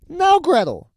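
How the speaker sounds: very high, loud witch call; impatient witch cry. A narrator's reading. Witch cries to the girl, impatient high shout. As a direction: summon the girl with a high yell. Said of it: "she cried to the girl".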